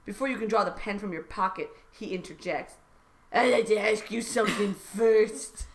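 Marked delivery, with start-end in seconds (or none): 3.3-5.7 lightly put-on politician voice; hint at a mock presidential voice; Donald Trump. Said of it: "Mister Trump".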